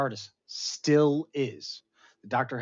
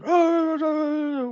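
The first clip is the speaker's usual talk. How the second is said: high loud mock gasp; crowd gasp; 9 dB louder than usual. Crowd reacts to her walking out.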